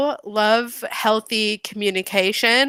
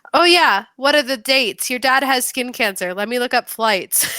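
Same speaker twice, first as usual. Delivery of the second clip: breezy, offhand mother, pitched up; casual; 3 semitones higher than usual. Retold or imitated. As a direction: toss it off like it's nothing. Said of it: "as casual as the day is long".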